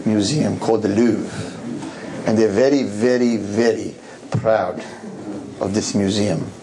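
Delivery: slow, hammed-up French accent; bad French accent. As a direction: put on an unconvincing French accent. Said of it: "my French accent is not French at all".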